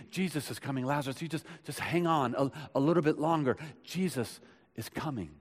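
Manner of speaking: soft comforting. Retold or imitated. Sister comforting dying brother.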